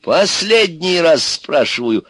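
high, loud, drawn-out warning; stern ultimatum. Acted. Baba Yaga questions bound Ivan, threatening. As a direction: press each word as a final warning.

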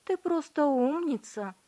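high, loud praise; mother praises her daughter; proud mother. A narrator's reading. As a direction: gush with pride.

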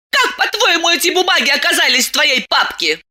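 выше и быстрее, со смешком; уличи мужа; злой вопрос. A narrator's reading. Ссора супругов. (злая Диана с усмешкой)

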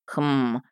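low, quiet pondering hum; a musing hmm under the breath; quiet thinking sound; thoughtful hmm. Acted. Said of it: "произнёс Мердок".

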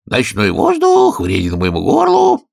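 put-on slow, fussy old bird; lightly voiced old magpie. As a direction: fret about the throat.

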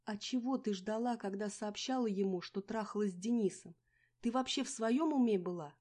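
loud, high reproach; furious rebuke; angry scolding. A narrator's reading. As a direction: scold her hard. Angry quarrel.

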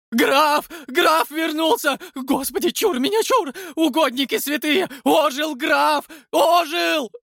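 very high, loud panicked screams; wild terrified screaming. A narrator's reading. Fleeing watchman screams wildly about the risen count. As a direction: scream in terror while running. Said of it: "дико крича, захлёбываясь".

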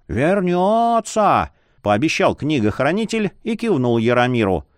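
lightly voiced jolly old man; a creaky cheerful old scholar.

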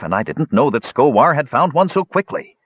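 high, uneasy excuse. A narrator's reading. Dwarf explains himself to the elves, uneasy. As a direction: offer the excuse with pitch climbing. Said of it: "Mertwig grew uneasy".

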